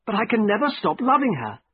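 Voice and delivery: high-pitched, helpless lament; miserable. A narrator's reading. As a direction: confess helpless love, a touch miserable. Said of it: "I said miserably".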